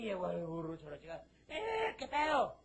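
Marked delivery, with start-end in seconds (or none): 1.5-2.6 high, slow, laid-back greeting; a lightly voiced, easygoing donkey; casual drawl. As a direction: stroll in unbothered.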